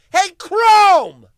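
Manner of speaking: loud, high shout at Chrome; calling out Chrome in anger; angry call-out. Real, not acted. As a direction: bellow it at the browser. Yells at the browser.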